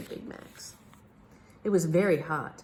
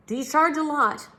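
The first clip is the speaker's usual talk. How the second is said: higher, louder anxious question; worried king; 10 semitones higher, 5 dB louder than usual. A narrator's reading. King asking the detective's fee, anxious. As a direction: ask nervously about the cost.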